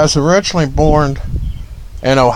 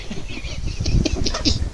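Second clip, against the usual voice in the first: soft, breathy chuckle; 13 semitones higher, 10 dB quieter than usual. Real, not acted. Streamer after blaming the weed, soft chuckle. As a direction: laugh quietly to yourself.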